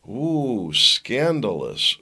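drawn-out, slow mock shock; mock scandalized. Host pretends shock at the biolab headline, mock scandalized. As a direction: stretch it out as if shocked.

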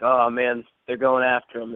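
understated imitation of a frustrated dad; mildly frustrated. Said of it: "he gets more like, uh, frustrated".

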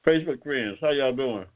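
talking with mouth full. Real, not acted. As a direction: greet them through a mouthful of food. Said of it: "I got my mouth full, y'all".

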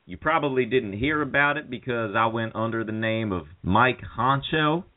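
hammed-up Cal Naughton speech to Ricky; Cal Naughton impression. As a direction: play Cal pleading over his buddy in the hospital. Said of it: "this is her Cal Naughton".

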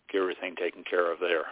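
ordinary delivery

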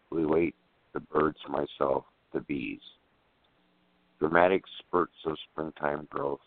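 measured poetry reading with pauses between phrases; poem recitation. Acted. Poet reading a garden sonnet on air, in measured recitation. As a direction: recite it line by line, evenly.

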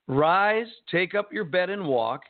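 punched RISE, then the rest run together; brisk command. Acted. Jesus tells the sick man to walk, brisk command. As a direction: repeat the command briskly, hitting RISE hard.

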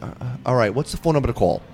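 mildly unenthused, imitating a reluctant celebrity; no enthusiasm. Famous guest reluctantly asking podcaster for the number, unenthusiastic. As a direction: retell it with little enthusiasm. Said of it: "Like, no enthusiasm".

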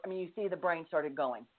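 drops to a real whisper mid-sentence. Real, not acted. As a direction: let it slip out under your breath. Aside while recounting her anxious thoughts.

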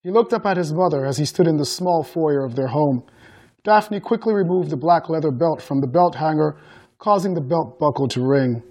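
measured audiobook-style narration; story narration. A narrator's reading. Author reading a book excerpt to guests, story narration. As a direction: read the excerpt aloud evenly.

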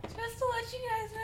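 high squeaky mock announcement; squeaky character voice. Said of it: "Use your character voice".

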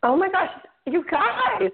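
hoarse, croaky voice from a bad cold; Kermit the Frog voice. Real, not acted. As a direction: croak it out with a sore throat. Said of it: "I sound like Kermit the Frog".

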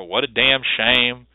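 slow, sighing, a touch sad; mock sigh. Professor pretending to sigh over a lost student, slow and mildly sad. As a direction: let it out like a weary sigh. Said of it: "I would sigh".

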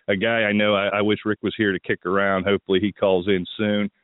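rough, just-woke-up morning voice. Real, not acted. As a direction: talk like you just got up. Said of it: "I got my morning voice here".

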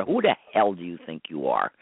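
dropped low and firm, hurling it back at her; low defiant retort. Retold or imitated. Host repeats the harasser's line back to her, low and defiant. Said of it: "And I'm gonna tell her".

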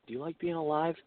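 low, hushed half-whisper. Shown as a demonstration. Coaching a friend to threaten his wife, half-whispered. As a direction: murmur it softly as a veiled threat. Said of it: "just whisper it".

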